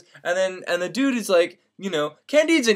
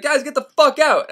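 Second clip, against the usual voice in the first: mock telling off; 8 semitones higher than usual. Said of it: "and he's like".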